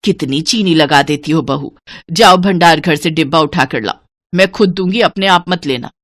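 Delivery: lightly voiced bossy mother-in-law; stingy mother-in-law, scolding. Stingy mother-in-law ordering daughter-in-law to fetch sugar, mildly scolding.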